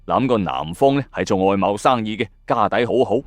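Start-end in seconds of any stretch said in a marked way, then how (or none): none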